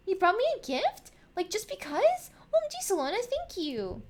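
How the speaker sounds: put-on high, loud, thrilled kid voice; surprised delight. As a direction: gush in happy surprise, easing down on the thanks. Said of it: "Nomi looks a little surprised".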